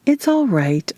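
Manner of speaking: gently calm the animal down; cooing. A narrator's reading. Narrator soothing her hellhound, cooing gently. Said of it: "I cooed to the animal".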